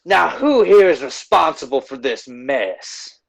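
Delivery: slow, lightly voiced menacing question; a hint of a cold villain addressing the crowd; Swift menacing. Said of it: "Swift looks out onto the crowd and says".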